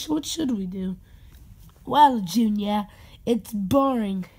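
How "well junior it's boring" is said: put-on slow British-accented delivery. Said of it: "a British accent in your voice".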